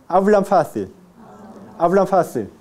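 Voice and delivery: "hablan" ending like m into "fácil"; labiodental n. Shown as a demonstration. Teacher drills class, labiodental n in "hablan". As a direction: link "hablan fácil" through an m-like n.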